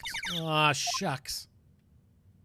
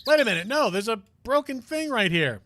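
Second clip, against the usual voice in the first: higher and louder, suddenly alert; surprised; 6 semitones higher, 5 dB louder than usual. Real, not acted. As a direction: catch it in surprise. Noticing a clue.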